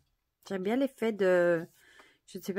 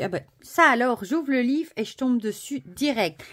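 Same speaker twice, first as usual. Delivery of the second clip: higher, louder amazed exclaim; surprised; 5 semitones higher, 7 dB louder than usual. Real, not acted. Opening the book right on her card, amazed. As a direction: caught off guard by the coincidence.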